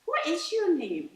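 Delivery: imitating husband. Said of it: "my husband went".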